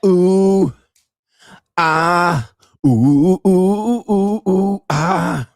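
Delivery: loud, high oohs and ahs; hammed-up moaning, held out long; mock sex moans. Streamer showing viewers what he means by real sex, mock moaning. Imitates sex sounds mid-rant.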